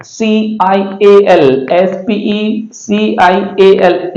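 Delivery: deliberate letter-by-letter spelling; teacher spelling it out slowly; spelled slowly. Shown as a demonstration. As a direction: spell S P E C I A L slowly, then say स्पेशल. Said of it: "स्पेशल इसको पढ़ेंगे".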